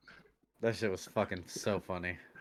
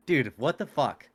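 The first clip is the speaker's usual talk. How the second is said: loud, higher, drawn-out mock disbelief; astonished; 4 semitones higher, 6 dB louder than usual. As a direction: re-enact being floored, stretching each word. Retells his amazed reaction.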